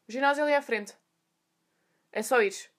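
mock curt, toneless directions; rude receptionist. Receptionist directing a nervous newcomer, rude. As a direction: imitate an unhelpful receptionist. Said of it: "no tom mais rude".

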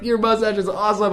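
high put-on stranger voice; hammed-up high-pitched compliment; mock admiration. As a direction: imitate a squeaky, gushing admirer. People admiring the mustache.

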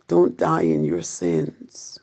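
hushed urgent whisper. Acted. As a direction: breathe the warning under your breath. Urgent warning in sermon.

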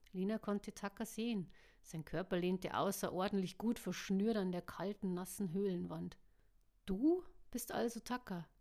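steady audiobook reading with voiced characters; story narration. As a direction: read it like an audiobook. Audiobook reading before own chat.

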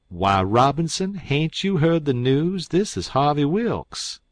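scandalized townsman, pitch climbing; astonished protest. A narrator's reading. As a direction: break the news in amazement. Abner protests to the doctor.

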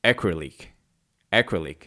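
"acrylic" slow, ACK-ri-lik, stress on first syllable; careful pronunciation. Shown as a demonstration. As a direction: spell out "acrylic" slowly for learners. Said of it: "压克力就是".

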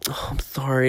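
soft, pitying imitation; mock sympathy. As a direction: coo softly like a sorry onlooker. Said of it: "The sympathy I received".

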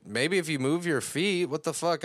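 high, mock annoyed retort; mild snap back. Sandy snaps back while fleeing.

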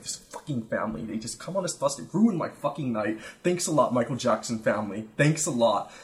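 mild mock grumbling; inner rant. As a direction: mutter the complaint bitterly. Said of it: "I'm just like".

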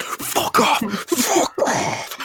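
high, strained mock scream. Spider-Man snapping at Human Torch, high mock scream. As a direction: scream it like a roid-raged hero. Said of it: "Just screaming at him".

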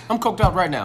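chuckling as you echo it; laughing. Shown as a demonstration. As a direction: repeat it through a laugh. Echoing the joke while laughing.

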